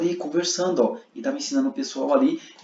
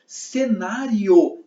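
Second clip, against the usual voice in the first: "cenário" stretched out slowly and louder; emphatic term; 3 semitones higher, 5 dB louder, much slower than usual. Shown as a demonstration. Teacher setting one term apart from another, "cenário" slow and emphatic. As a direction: hit "cenário" hard, drawing out each syllable. Teacher contrasts two easily confused terms.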